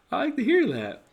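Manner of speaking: high falsetto mock delight. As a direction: squeal it like a giddy fan, with a laugh. Repeats mock reaction.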